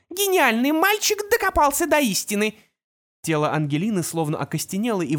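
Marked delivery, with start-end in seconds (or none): 0.1-2.5 high, loud sneering villain; mocking villain. A narrator's reading. Opal mocks the boy genius, high and loud.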